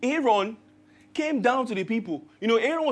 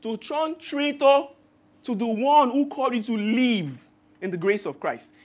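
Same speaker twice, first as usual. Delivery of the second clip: "traitor" punched louder and slower; emphatic repeat; 5 dB louder than usual. Shown as a demonstration. Preacher repeating the verse to congregation, emphatic. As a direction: hammer the word "traitor" home, slowly. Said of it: "He says".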